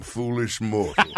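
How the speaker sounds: low, ominous haunted-house host; a hint of a spooky host; Paul Frees voice. Shown as a demonstration. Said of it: "added a little more Paul Frees".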